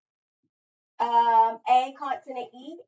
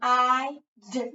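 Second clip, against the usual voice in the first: sounded out; 5 dB louder than usual. Shown as a demonstration. Sounding out the word spider.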